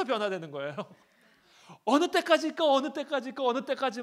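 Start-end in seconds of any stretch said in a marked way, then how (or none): 1.9-4.0 high, loud repeated wail; a sufferer crying out to God; mock despairing cry. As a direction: wail how long over and over.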